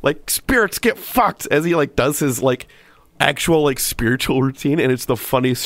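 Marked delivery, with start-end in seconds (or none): 0.3-1.5 mock yelling. Sumo viewers cheering on the spirit-banishing ritual, mock yelling. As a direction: imitate fans yelling, pitched way up. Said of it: "yelling, like".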